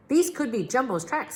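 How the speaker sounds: Big Max voice. A narrator's reading. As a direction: echo the king brightly as Big Max. Big Max repeats the king.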